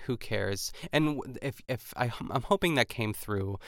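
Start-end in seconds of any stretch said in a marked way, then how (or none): 0.1-0.7 deadpan. Retold or imitated. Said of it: "the deadpan".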